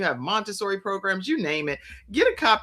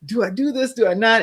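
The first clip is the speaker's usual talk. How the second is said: doubting; 6 semitones higher, 5 dB louder, faster than usual. Retold or imitated. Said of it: "but then you're like".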